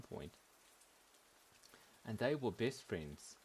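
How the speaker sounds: put-on playful storytelling in a shaky South African accent; put-on accent, South African or Kiwi. Telling a tale of a confused apple, put-on South African accent. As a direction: tell it like a fable, in a rough South African accent. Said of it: "Or, like, South African".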